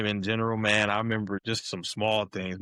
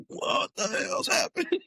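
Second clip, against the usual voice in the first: mock shock. Stunned by fireworks at tunnel.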